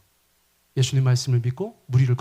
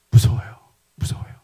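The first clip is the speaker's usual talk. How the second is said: scared cry; 5 semitones lower, 6 dB louder than usual. Acted. Acting Peter's fear.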